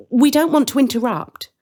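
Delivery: put-on high, boyish hesitant question; a cautious boy checking politely; Hansel's voice. Young Hansel asking the woman, high and careful. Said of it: "Hansel asks".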